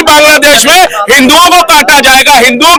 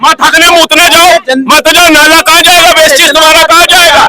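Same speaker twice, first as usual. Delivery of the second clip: raised voice in a street row; real heated shouting. Real, not acted. Man shouting back at his opponent about the drain, heated. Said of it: "इतना चिल्ला रहे बेफालतू में".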